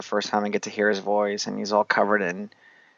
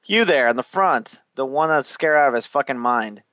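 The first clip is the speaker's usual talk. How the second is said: higher mock summons, easing off; single out a servant in imitation; imitated commanding king; 3 semitones higher than usual. King singling out scared Colt, mock imperious call. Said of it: "so he tells Colt".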